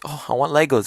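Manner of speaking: younger self. Retold or imitated. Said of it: "whenever I asked my parents when I was younger".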